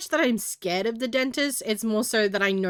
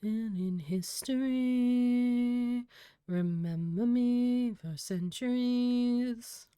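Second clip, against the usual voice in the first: epic voice; 6 dB quieter, much slower than usual. Pretend. Grandiose mock epic declaration.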